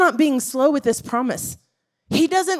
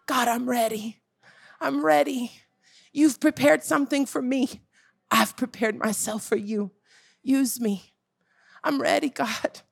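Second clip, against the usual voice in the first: softer, a sincere whispered-down surrender; humble quiet prayer; 5 dB quieter than usual. Retold or imitated. Preacher voices a ready believer praying softly to God. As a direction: pray it gently, meaning every word.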